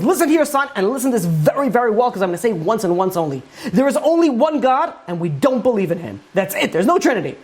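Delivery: a mild flare of anger, sharp on the first words; angry father. Retold or imitated. Atheist father at dinner, fed up, mildly angry. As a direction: snap it at the son like a fed-up father. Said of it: "is getting so angry".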